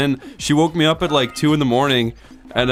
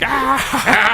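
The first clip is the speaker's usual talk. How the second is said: mocking cheer; 12 semitones higher than usual. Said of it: "they're like".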